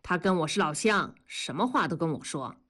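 straight-faced, understated claim; deadpan earnest. Acted. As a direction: say it in all seriousness. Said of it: "一本正经地说". (一本正经地说)

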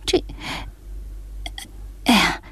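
磕磕巴巴，迟疑停顿; 被弄糊涂了，话都接不上; 困惑发懵. Acted. 老太太听糊涂了. (一头雾水地结巴)

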